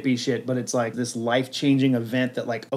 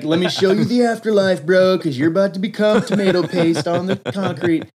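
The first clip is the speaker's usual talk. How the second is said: higher, laid-back bro voice; slightly higher, easygoing dude; bro brain voice; 4 semitones higher than usual. Pretend. Brain greets a falling man, laid-back bro.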